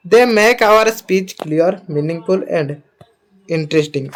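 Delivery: reads English very slowly; slow dictation reading. Acted. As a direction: spell it out slowly for students.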